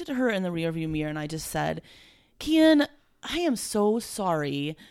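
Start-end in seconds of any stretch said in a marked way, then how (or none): 2.4-4.8 fighting back tears. Retold or imitated. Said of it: "I was fighting back tears".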